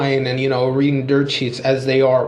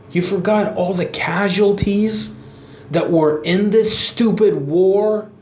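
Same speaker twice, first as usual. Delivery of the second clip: angry promo; 4 semitones higher than usual. Retold or imitated. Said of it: "you got Rock cutting a promo and says".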